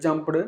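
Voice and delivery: "jumped" with an extra syllable, jum-puh-duh; ESL mispronunciation. Shown as a demonstration. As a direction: sound out the ending of "jumped" as a separate beat. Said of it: "E S L speakers may pronounce the word as".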